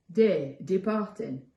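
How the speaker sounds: slow, loud monster query; loud, drawn-out character voice at normal pitch; second monster calling back. Acted. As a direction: call back loudly, drawing out the words. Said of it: "called back the second monster".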